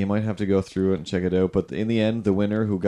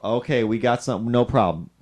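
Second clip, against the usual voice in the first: Southern groomer; 3 semitones higher than usual. Retold or imitated. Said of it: "except they're Southern".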